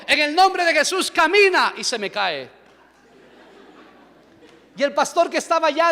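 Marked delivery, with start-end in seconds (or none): 0.1-1.7 raised, ringing command; commanding healing cry. Retold or imitated. Pastor praying over man in wheelchair, commanding. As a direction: order it with loud, high authority.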